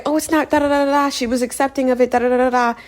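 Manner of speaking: high, fast mock whiny voice; mocking imitation. Mimicking a defender of the chef, high sing-song mockery.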